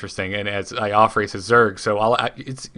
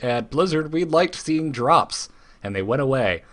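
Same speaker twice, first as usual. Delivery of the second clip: voiced company spokesman; 5 semitones higher than usual. Blizzard explaining its changes to players, lightly voiced spokesman. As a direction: lightly act out the developers. Voicing Blizzard's reasoning as a quote.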